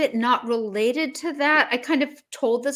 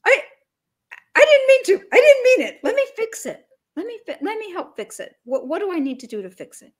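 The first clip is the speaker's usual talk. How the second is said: apologetic demo; 9 semitones higher, 6 dB louder than usual. Shown as a demonstration. Coach models apologizing after a bad turn, sheepish. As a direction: show how to own the mistake. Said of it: "just say".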